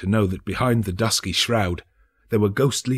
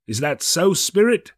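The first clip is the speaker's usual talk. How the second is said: put-on old Scrooge, nervous and pleading; timid old miser asking the ghost; anxious question; 9 semitones higher, 4 dB louder than usual. A narrator's reading. Scrooge asks the spirit.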